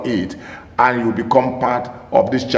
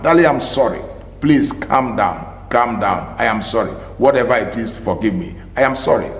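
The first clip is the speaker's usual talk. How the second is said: soft apology; 4 semitones lower than usual. Shown as a demonstration. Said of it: "in a very respectable and responsible manner".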